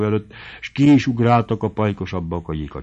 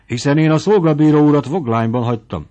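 bewildered doctor; 6 semitones higher, 6 dB louder than usual. A narrator's reading.

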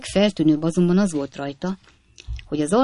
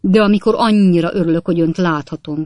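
gushing; 6 dB louder, faster than usual. A narrator's reading. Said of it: "felelte Job Trotter".

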